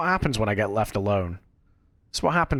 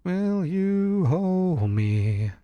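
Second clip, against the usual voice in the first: mock scared plea; 7 semitones higher, much slower than usual.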